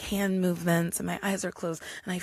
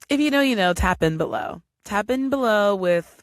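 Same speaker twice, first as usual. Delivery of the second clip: loud call-out; 3 semitones higher, 6 dB louder than usual. Acted. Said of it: "a viewer call-out".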